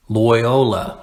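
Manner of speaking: "Loyola" as loy-OH-la; hard pronunciation. Shown as a demonstration. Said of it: "It's a hard way to say it".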